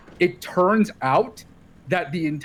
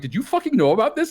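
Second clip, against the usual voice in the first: laughing disbelief; 7 semitones higher, 3 dB louder than usual. Retold or imitated. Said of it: "I'm like".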